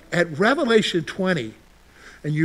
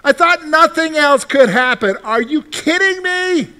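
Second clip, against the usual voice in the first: a congregation member complaining about new trouble, mock exasperated; mock exasperation; 6 semitones higher than usual. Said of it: "Have you said that one?".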